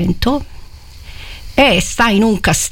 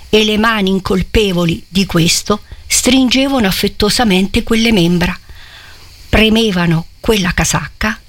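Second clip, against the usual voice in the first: literary reading. A narrator's reading. Preacher reading Manzoni's scene aloud, solemn. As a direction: read the passage with gravity to the congregation.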